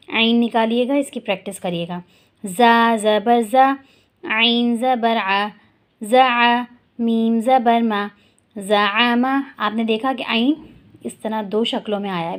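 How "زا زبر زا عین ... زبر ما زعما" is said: slow, deliberate letter-by-letter recitation; slow spelling drill. Shown as a demonstration. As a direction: drill each syllable slowly for the class. (آہستہ ہجے کی مشق)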